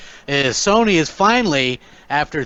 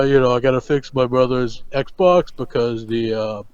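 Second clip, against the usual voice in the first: lightly put-on deadpan drone; low, unhurried mock vlogger; Hellhammer impression; 3 semitones lower than usual. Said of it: "doing Hellhammer the rest of the show".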